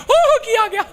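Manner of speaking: very high, drawn-out whoop; mock Punjabi exclamation. Preacher teasing Punjabis' way of reading scripture, high mock cry. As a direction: exclaim in exaggerated falsetto amazement. Repeating the mimicked reaction.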